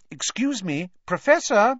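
high call rising to loud. Acted. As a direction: raise your voice to wake him. Girl calls again to wake sleeper.

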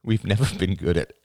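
rueful laugh through the words. A narrator's reading. Father admitting a failing to his daughter, ruefully laughing. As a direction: break into a small helpless laugh. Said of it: "he laughed".

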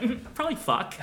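high, giggly, playful answer; coy high-pitched quote. Retold or imitated. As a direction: toss it off coyly with a laugh. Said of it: "And she's like".

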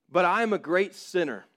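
the sinner insisting he is unworthy; pleading sinner. Acted. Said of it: "a dialogue between a person trying to come to Jesus".

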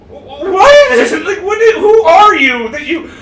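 high laughing outburst of disbelief, then shouting; retold disbelieving shout. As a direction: yell it in stunned outrage, laughing. Retold outraged reaction at date.

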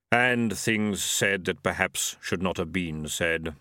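low, slow regretful Death; a touch of regret, slow; rueful grim reaper. Acted.

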